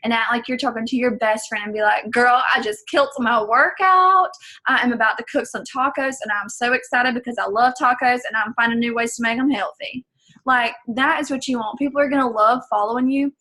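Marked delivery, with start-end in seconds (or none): 2.1-10.1 excited. Shown as a demonstration. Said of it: "you want to speak with passion".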